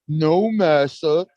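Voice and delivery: slow, drawn-out mock servile answer. Mocking defendant answering the judge, slow and servile. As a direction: drag it out like a groveling servant.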